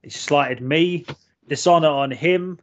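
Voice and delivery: slow, drawn-out indignation; mock outrage. Host denounces actor's Cockney accent, mock outrage. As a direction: pronounce a grand curse, slowly.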